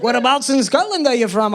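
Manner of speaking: lightly voiced Scottish questioner; retold question with a Scottish lilt; Scottish accent. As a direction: imitate a Scottish customer's accent. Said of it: "had a thick Scottish accent".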